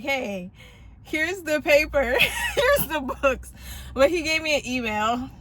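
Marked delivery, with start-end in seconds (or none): 0.0-3.5 laughing through mock quote. Mocking what he could've done.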